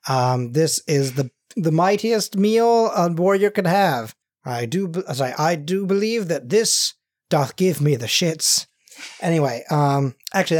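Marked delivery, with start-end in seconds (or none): 0.1-4.1 lightly voiced, slow knightly pomp; mock-archaic formality; medieval knight. Voices medieval time travelers. 4.4-8.7 lightly mock-solemn, slow; a touch of archaic pomp; medieval knight. Voices medieval time travelers.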